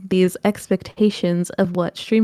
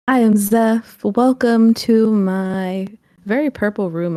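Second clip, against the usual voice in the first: loud announcer intro; 5 dB louder than usual. Acted. Guest announces herself on podcast.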